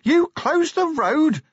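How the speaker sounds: very high, loud, slow shout; full-on yell of disbelief, stretched out. A narrator's reading. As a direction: bellow the question at top pitch. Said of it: "he yelled as they plunged on".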